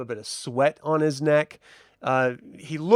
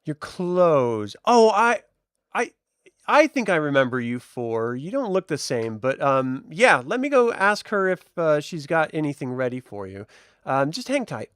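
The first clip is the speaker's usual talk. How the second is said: lightly raised, stammering helper voice; flustered shop assistant; 2 semitones higher than usual. Acted. Assistant stalling the customers, lightly flustered.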